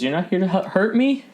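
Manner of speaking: half-elf asking the cleric, high and scared; scared woman. Acted. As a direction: ask in fear if they'll hurt her. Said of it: "she says".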